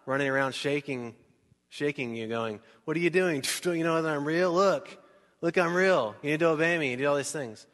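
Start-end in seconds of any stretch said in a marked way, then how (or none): 2.9-6.9 louder, insistent, half-laughing; mock demanding God. Pastor imagining a pushy God, mock loud and insistent. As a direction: shake them with it, hammed-up.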